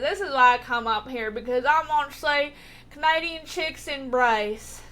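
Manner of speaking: mock southern accent on a quoted pick-up line. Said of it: "gave him a southern accent".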